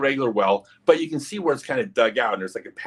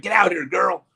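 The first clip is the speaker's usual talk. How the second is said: high-pitched Southern holler; Southern accent; 9 semitones higher, 4 dB louder than usual. Retold or imitated. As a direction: call her out in a Southern twang. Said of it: "It was a Southern accent".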